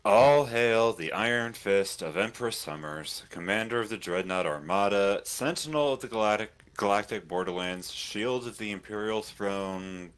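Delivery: slow, ceremonial proclamation; grand herald. Acted. Hailing the general for the stream, grand herald. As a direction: announce a ruler with pomp.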